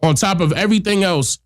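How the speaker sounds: blocked nose from a cold; stuffy nose. Real, not acted. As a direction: talk through a stuffed-up nose. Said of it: "I sound all stuffy nose".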